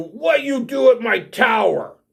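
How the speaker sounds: high, yelling hill giant voice. Voicing a hill giant confronting intruders at her tower: yelling as Moog the hill giant. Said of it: "yells at you".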